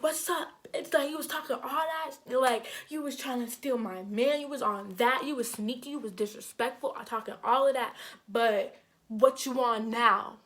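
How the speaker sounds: mock-challenging, punching the last words; confrontational. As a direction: act out calling a rival out. Acted confrontation with rival.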